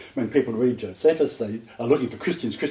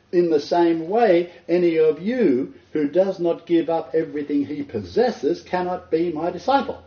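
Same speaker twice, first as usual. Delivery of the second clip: slow and raised, each word weighed; solemn scripture quote; 5 semitones higher than usual. Retold or imitated. Preacher quoting Jesus to the crowds, slow and solemn. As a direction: read the verse slowly, with weight. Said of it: "he adds".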